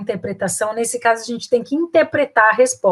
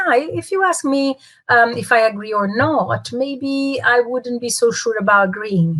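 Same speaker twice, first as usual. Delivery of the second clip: hesitant hedging; slower than usual. Shown as a demonstration. Teacher shows students a hesitant, indirect way to disagree. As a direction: soften a disagreement by sounding unsure. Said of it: "Se você fala assim".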